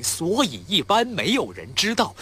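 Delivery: slow, forward, in the mouth; mouth resonance. Shown as a demonstration. Actor demonstrating mouth resonance, the chef's style. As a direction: shape the line in the front of the mouth. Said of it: "这个是口腔共鸣".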